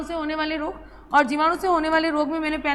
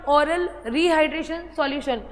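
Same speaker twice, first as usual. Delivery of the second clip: very slow, each word drawn out; "oral rehydration solution" spoken at half speed; slow dictation; much slower than usual. Shown as a demonstration. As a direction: say it slowly so they can write. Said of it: "full form लिख लेना".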